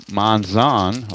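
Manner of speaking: Monzon as mon-ZAHN, drawn out; alternative pronunciation. Shown as a demonstration. Trying out the player's name, Monzon with a full "zahn". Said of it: "however you wanna pronounce it".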